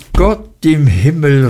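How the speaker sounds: put-on an old man's surprised outcry after a cough; surprised exclamation. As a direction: blurt it out in surprise. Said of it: "rief Mister Omer nach einem Hustenanfall überrascht".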